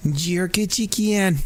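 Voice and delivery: slow, hammed-up Jamaican "Jerk chicken."; bad Jamaican accent. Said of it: "with a really bad Jamaican accent".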